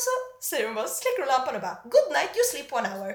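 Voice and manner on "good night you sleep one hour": louder broken English, imitated Chinese accent. Acupuncturist leaving patient with needles, imitated Chinese accent. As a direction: announce it briskly with a Chinese accent. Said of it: "kinesisk, eh, brytning".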